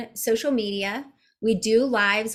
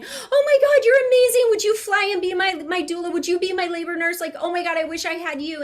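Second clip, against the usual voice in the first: much higher and louder, squealing with delight; gushing fans; 8 semitones higher, 4 dB louder, faster than usual. Retold or imitated. Mimicking adoring women in the chat, high squealing gush. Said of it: "two hundred women in the chat going".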